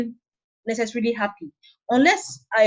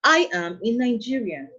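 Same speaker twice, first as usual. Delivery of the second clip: "I am in Nigeria" as a finished statement, falling on "Nigeria". Shown as a demonstration. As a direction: close firmly with a fall on "Nigeria". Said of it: "It's a complete statement in itself".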